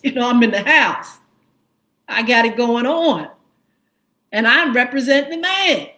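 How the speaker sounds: smug, bragging mock voice; mocking imitation. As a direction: brag it loud and smug. Imitating Bondi before Congress.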